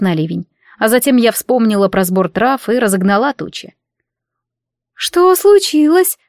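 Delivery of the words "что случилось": much higher, slow, timid; small girlish voice, slow and high; thin little voice. A narrator's reading. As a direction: ask in a tiny high voice. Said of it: "тоненьким голосочком спросила Айса".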